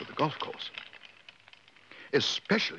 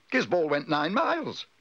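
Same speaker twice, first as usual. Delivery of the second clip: high, drawn-out marvelling; amazed boast; 8 semitones higher than usual. A narrator's reading. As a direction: stretch it out in wonder. Family marvels at the shot.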